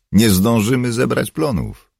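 high, loud, worried objection; objecting. A narrator's reading. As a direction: protest that it's hopeless. Dale objects to the leader.

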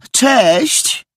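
bright high sudden sweet hello. A narrator's reading. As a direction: switch instantly to sugary charm for the boy. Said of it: "zupełnie innym tonem".

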